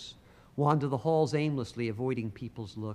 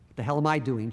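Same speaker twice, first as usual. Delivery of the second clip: nervous, louder outburst; a burst of nerves, a little loud; nervously; 6 dB louder, faster than usual. Acted. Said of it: "Jake asked Noah nervously".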